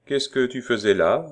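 lightly coaxing paternal question; fatherly caress. Acted. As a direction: ask fondly, pitched a little up. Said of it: "l'accent était plein de paternelle caresse".

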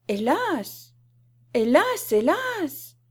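high, wailing hammed-up lament; theatrical comic woe; comic sorrow. A narrator's reading. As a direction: wail in mock grief, swooping up. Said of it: "avec une douleur comique".

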